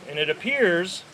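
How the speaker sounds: "appears" leaned on with extra weight; stress on appears. Shown as a demonstration. Park owner flags a key word to the rally crowd, stressed. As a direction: press hard on "appears". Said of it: "the emphasis on the word appears".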